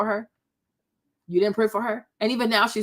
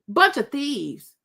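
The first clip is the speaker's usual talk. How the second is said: slow, drawn-out disgusted verdict; slower than usual. Real, not acted. Slowly condemning the guests as thieves. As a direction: let the insult drag out slowly. Repeats insult about the guests.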